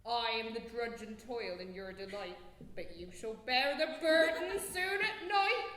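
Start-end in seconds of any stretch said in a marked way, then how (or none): 2.8-5.7 laughing singsong. Acted. Nurse teases, laughing singsong.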